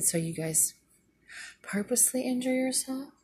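high, disbelieving rise; can't believe what she hears; incredulous question. Retold or imitated. Asking the neighbour in disbelief about injuring themselves.

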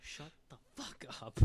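hissed whisper. Real, not acted. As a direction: whisper it harshly. Joking retort to hype man.

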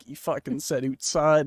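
mock Canadian accent. Retelling how a player called out his accent, mock Canadian vowel. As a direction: quote with Canadian "oot-side" on OUTSIDE. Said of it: "it's like the oot".

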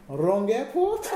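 slow, high, halting question; imitated non-native speaker breaking bad news; searching for words. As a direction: offer it slowly, groping for the English. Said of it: "How do you say".

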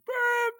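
a sharp, high, loud mouth whistle blast; squeaky imitated whistle tweet; whistle imitation. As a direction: mimic a referee's whistle with your voice.

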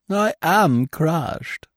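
high, hammed-up wounded girl voice; mock tragic girl. Young actress mocking self-pity at a stranger, hammed-up and high.

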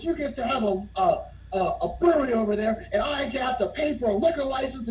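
high-pitched mock outrage; imitated screaming. Bar owner resenting the unlicensed brewery, acted-out screaming rant. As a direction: rant like a man who's been cheated. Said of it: "And he's screaming at him".

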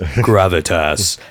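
low and slow gravitas. Retold or imitated. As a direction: stretch it out deep and slow. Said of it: "you say it like this".

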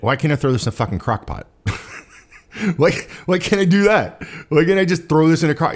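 retold brainwave breaking into chuckles; amused self-quote. Telling listeners how the crock pot idea hit, laughing. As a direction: laugh through the words, pitch climbing. Recounting his quick fix, amused.

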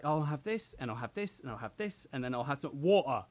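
put-on Pompey accent on "water"; retold girlfriend ordering, Pompey-style; imitating girlfriend's accent. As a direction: reel off an order in mock Pompey. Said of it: "she was just like".

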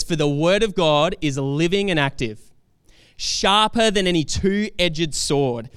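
slow, forceful preaching; emphatic Scripture reading. Real, not acted. Preacher reading Hebrews to the congregation, slow and emphatic. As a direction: declare the verse weightily, drawing out key words.

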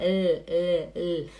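isolated L, "el, el, el"; tongue tip up on each el; demonstrated L sound. Shown as a demonstration. Teacher showing students the tongue, sounding L. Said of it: "olha a língua".

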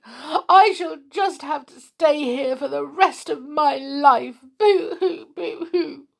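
put-on high, wailing girl's voice ending in boo-hoos; miserable. A narrator's reading. Connie stuck on the ladder, miserable. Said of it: "he heard a miserable voice above him".

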